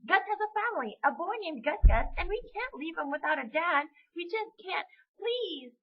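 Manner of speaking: put-on high-pitched begging child; desperate pleading. Amy begging dad to spare Gus, pleading. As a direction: plead earnestly, piling up reasons. Amy begs for turkey's life.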